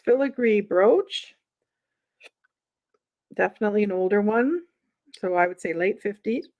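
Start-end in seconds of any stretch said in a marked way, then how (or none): 5.2-6.5 hiccups. Real, not acted. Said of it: "got the hiccups".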